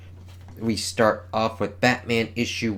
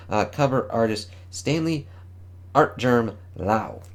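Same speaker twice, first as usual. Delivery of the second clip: announcer read. Acted. Reads comic solicitation text.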